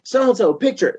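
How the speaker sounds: high call for the next guy; mock singer calling the crew; imitating Don. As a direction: pitch it up and call out. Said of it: "Don's like".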